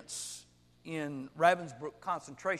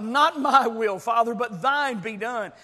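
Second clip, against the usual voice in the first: loud, raised-pitch plea of surrender; crying out in prayer; 5 semitones higher, 11 dB louder, slower than usual. Retold or imitated. Jesus prays to the Father in Gethsemane, crying out. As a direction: cry it out firmly to the Father. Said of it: "He cried out".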